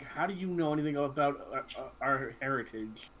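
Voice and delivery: understated growled challenge, slightly halting; a touch of a growl, feeling for the words; mild growl. Acted. Jason challenges Luke about their heritage with a mild growl. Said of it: "Jason's gonna growl".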